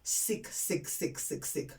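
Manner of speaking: mock disgust, dropping from soft to a whisper on the repeated sick; sick, sick whispered away in revulsion; disgusted, fading to a whisper. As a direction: shake your head, trailing off into whispered sicks. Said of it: "I was like".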